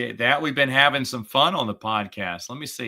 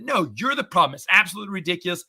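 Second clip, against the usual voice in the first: angry; 5 semitones higher, much faster than usual. Retold or imitated. Retold angry blowup at dealership.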